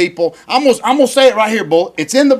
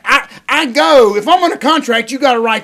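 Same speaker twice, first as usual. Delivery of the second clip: real indignation, raised pitch; worked-up rant; 4 semitones higher than usual. Real, not acted. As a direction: get worked up defending yourself. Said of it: "Very, very much like a certain singer on that rant".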